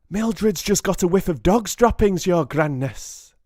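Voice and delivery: high, loud witch calling out; calling back. A narrator's reading. Someone calls back to the Grand High Witch, high loud call. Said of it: "someone called back to her".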